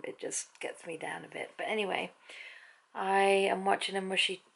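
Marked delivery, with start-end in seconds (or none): 1.6-2.1 soft unvoiced whisper; hushed little sigh of words. Real, not acted. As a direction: breathe it out under the breath. Whispered aside while resting.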